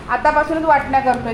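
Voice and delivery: usual speaking voice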